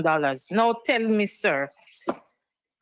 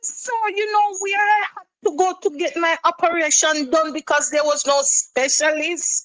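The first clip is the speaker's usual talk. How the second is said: higher, fast tearful words; crying; 3 semitones higher, 3 dB louder, faster than usual. Real, not acted. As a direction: speak through rising tears. Caller breaks down.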